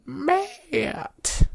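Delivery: very high, loud piercing call; piercing Scottish shout. A narrator's reading. Frustrated Karen interrupts their conversation, piercing shout. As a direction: shriek the name, cutting in. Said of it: "A piercing Scottish voice interrupts".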